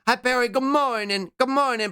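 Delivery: high sing-song hello, a little teary; cutesy greeting. Real, not acted. Streamer greets a viewer in chat, high and teary.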